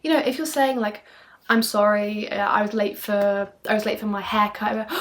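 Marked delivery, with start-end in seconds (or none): 1.5-4.9 dull flat monotone read. Shown as a demonstration. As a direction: say it like a bored robot, slow. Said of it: "don't speak in a monotone voice like this".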